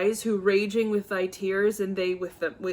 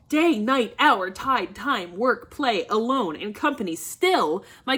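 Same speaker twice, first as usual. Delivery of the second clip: loud rant; 3 dB louder than usual. Acted. Father ranting about his care.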